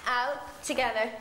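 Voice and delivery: dance step calls. Shown as a demonstration. Calls out dance steps on beat.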